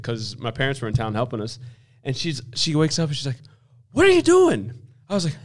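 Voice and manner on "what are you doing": high-pitched imitated bewilderment; baffled wife. Wife waking to find husband shushing a pillow, baffled. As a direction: imitate a wife woken up, voice shooting up.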